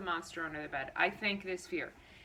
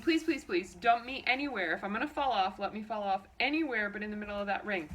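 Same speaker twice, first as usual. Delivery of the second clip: desperate inner plea; 4 dB louder than usual. Retold or imitated. To herself while riding the bolting horse, frantic pleading. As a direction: beg the horse not to dump you there. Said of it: "So I start thinking".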